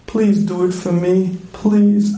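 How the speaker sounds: lightly voiced plea; pleading wife. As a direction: plead like a wife working on her husband. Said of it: "She said that nasty".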